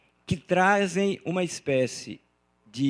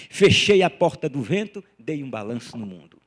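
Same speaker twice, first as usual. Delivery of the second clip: recited verse; 3 semitones lower, 6 dB louder than usual. Shown as a demonstration. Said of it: "essa que eu gosto muito".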